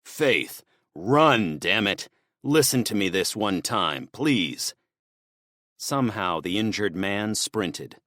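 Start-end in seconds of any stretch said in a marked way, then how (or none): 0.0-4.7 yelling. Acted. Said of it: "He yelled over his shoulder".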